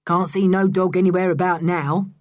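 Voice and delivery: hoarse voice. Acted. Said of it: "Mister Stick's hoarse voice".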